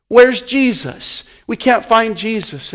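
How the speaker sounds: high, slow, worried cry for the lost son; panicked parents. Retold or imitated. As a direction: plead in rising panic. Mary and Joseph panicking.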